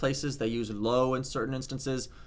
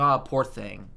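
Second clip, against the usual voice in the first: pitying sigh; 4 semitones lower than usual. Shown as a demonstration. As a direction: lower "Ah, poor thing" with pity. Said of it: "you go".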